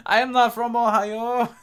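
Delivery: high, loud indignant protest; hammed-up loud denial; mock outrage. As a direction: belt it out high, every word separate.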